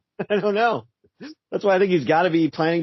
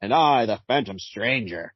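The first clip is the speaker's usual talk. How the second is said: slow, solemn narrator of doom; Phantom Stranger voice; 3 semitones lower, slower than usual. Acted. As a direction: intone it like a brooding spirit. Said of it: "you have a Phantom Stranger voice".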